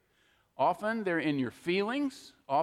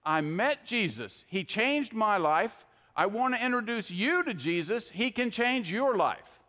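a heartfelt introduction to Jesus; sincere witness demo; 3 semitones higher than usual. Shown as a demonstration. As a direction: say it simply and sincerely. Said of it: "can go up to someone and say".

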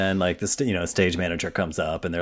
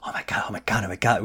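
excited whisper; 4 dB quieter, much faster than usual. Retold or imitated. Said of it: "we were all like".

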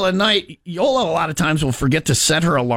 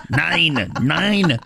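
mock German accent. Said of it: "the German part of Australia?".

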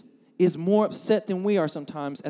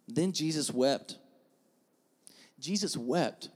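soft, slow and solemn; quiet, weighted delivery; hushed scripture reading; 4 semitones lower, 8 dB quieter, slower than usual. A narrator's reading. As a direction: let the short verse fall softly. Solemn verse read twice, softly.

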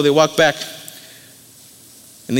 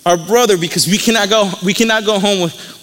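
higher-pitched, emphatic retold plea; earnest storyteller's pleading, starting high and easing down; 4 semitones higher than usual. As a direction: act out begging for a brother. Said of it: "They're pleading with him".

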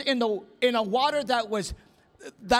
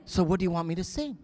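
cheeky; 5 semitones lower, faster than usual. Retold or imitated. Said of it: "I was being kinda naughty".

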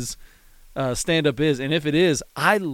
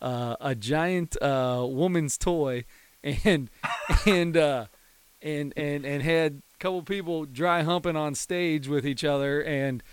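unimpressed bewilderment; 4 dB quieter than usual. Retold or imitated. Comedian recapping his bizarre day, imitated as underwhelmed and bewildered. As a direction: retell it quietly, as if baffled by the day. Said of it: "he didn't seem super impressed by it".

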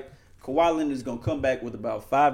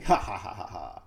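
evil villain laugh; 7 semitones lower than usual. Pretend. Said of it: "Evil villain laugh".

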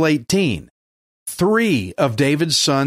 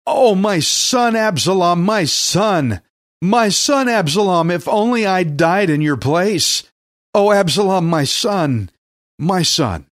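mildly acted grief, pitched higher; grieving lament; 4 semitones higher than usual. David cries out for his dead son Absalom, mildly acted grief. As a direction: read it as a lament, voice lifted, mildly anguished. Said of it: "and wept".

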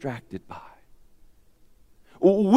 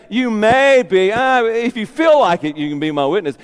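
mock half-hearted offer; 2 semitones higher than usual. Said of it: "He doesn't say".

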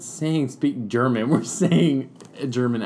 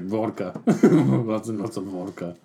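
mock Russian accent; 5 semitones lower than usual. Shown as a demonstration. Demonstrating Russian for the struggling player, mock Russian accent. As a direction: toss off a jokey Russian accent. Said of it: "Been to Russian".

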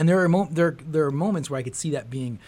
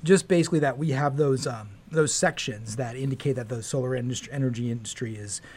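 speaking through a mask. Real, not acted. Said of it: "I'm actually speaking through a mask".

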